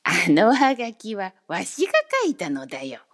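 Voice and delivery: put-on proud odd man boasting to the boy; grinning cry. A narrator's reading. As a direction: beam and blurt it out proudly. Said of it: "ニタニタニタニタ笑って叫びました".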